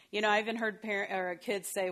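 usual speaking voice

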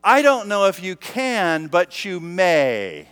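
put-on slow put-down in a posh British accent; posh British correction, deliberately drawn out at the end. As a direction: lightly imitate a posh British accent, drawing out "may". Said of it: "says in that posh British accent".

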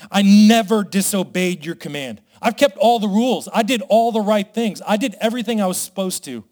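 the older son airs his grievance, half-acted; angry grumbling. Pastor voicing the older son to his father, mildly angry. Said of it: "hear the anger and the frustration and the grumbling in his voice".

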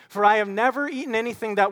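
fast, rising rehearsal of the line; quick recap. Shown as a demonstration. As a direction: rattle it off as a reminder. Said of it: "what are the two words he uses?".

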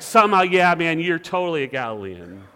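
hammed-up guess at a Galilean accent, loud start falling away; mock Galilean accent. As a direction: improvise a silly Galilean accent. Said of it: "what a Galilean accent sounded like".

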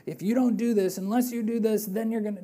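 a light mock scolding parent; exasperated parent. Shown as a demonstration. Preacher showing how not to read Jesus, mock exasperated parent. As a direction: lightly play a fed-up parent laying down terms. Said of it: "like, exasperated, you know, like a parent".

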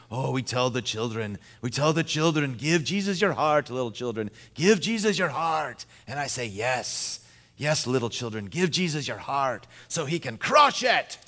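lightly put-on Dutch accent; Doctor Krabbendam. Pastor imitating his favorite Bible teacher, light Dutch accent. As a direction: imitate a Dutch teacher, building to an emphatic finish. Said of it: "in his deep Dutch accent".

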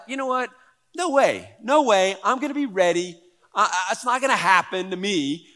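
hammed-up confident vow with a laugh; cocky Peter. Peter sure he won't deny Jesus, mock confident. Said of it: "you could feel like".

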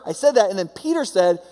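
a frustrated teacher reminding the class; a touch of an exasperated Jesus. Retold or imitated. Jesus scolding his disciples.

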